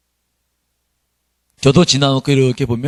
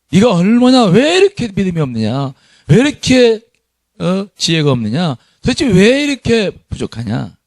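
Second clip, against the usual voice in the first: raised, exasperated rebuke; rebuking; 3 semitones higher than usual. Retold or imitated. Preacher voicing Jesus scolding his disciples, exasperated. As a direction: scold them for their lack of faith.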